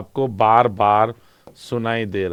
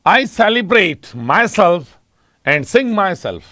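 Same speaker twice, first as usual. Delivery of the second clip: slow demo reading; 4 semitones higher, much slower than usual. Shown as a demonstration. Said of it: "अब यहां पे कौन से".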